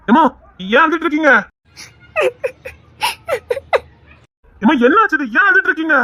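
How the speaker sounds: urgent, troubled asking; alarmed questioning. Acted. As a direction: press them worriedly for what happened. Alarmed at finding people crying.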